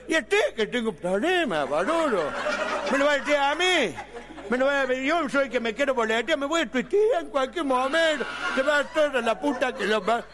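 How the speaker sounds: lisping through the words; despairing speech defect voice. Retold or imitated. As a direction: mangle the consonants like Miguelito. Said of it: "Hablaba arte".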